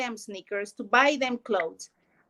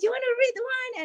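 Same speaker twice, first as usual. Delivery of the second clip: high, fast, eager offer of a book; all excited; 13 semitones higher, faster than usual. Retold or imitated. Mom eagerly offering her son a book, excited and fast. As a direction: pitch it like you can't wait for him to say yes. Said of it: "And I was all excited".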